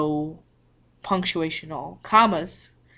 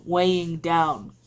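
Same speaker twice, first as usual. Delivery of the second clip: heavy and slowed, weighing down; slower than usual. Shown as a demonstration. Teacher showing students the weight of a period, slow and heavy. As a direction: let the words sink slowly. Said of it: "something kind of pulling down".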